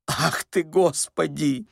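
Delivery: high-pitched, agitated exclamation; flustered old man. A narrator's reading. Old man thrilled by the imperial dream, high fluster. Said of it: "заволновался старик".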